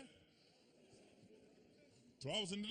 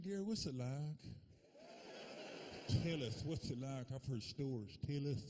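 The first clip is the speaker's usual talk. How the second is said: lightly lower, eager friends asking; curious white friends; 5 semitones lower than usual. Retold or imitated. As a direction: lean in nosy, lightly voiced. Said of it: "my white friends".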